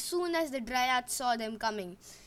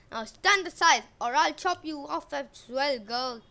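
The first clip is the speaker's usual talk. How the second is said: threatening; 4 dB louder than usual. Acted. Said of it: "Eric threatens".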